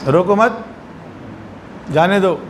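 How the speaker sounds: "روکو مت" joined, long break, then "جانے دو"; long pause after مت. Shown as a demonstration. Teacher repeating the slip's message, long pause after مت. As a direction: hold a clear silence between مت and جانے. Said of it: "اس کا کیا مطلب ہے".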